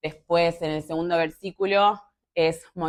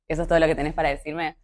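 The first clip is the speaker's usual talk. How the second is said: fast exasperated retort; faster than usual. Retold or imitated. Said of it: "Y es como".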